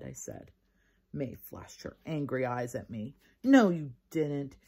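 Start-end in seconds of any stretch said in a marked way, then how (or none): 3.4-4.6 accusing. Acted. May angry at Junie B.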